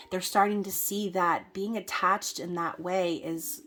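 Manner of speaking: usual speaking voice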